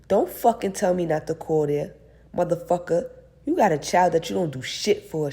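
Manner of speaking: angry. Acted. Angry ex on the phone.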